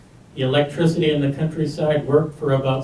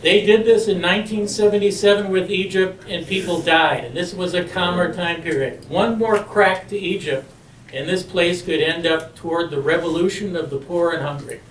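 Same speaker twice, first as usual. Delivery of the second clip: Marine voice; 3 semitones higher than usual. Shown as a demonstration. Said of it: "use my Marine voice".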